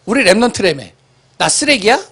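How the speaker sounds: put-on high whining child's voice; whiny child. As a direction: complain like a hurt kid. His child complaining.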